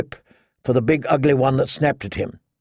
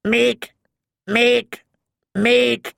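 much higher, clipped bird cries; raven squawk; 9 semitones higher, much slower than usual. A narrator's reading. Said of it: "The raven echoed".

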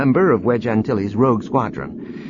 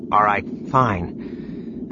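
growled; much slower than usual. A narrator's reading. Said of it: "Corin growled".

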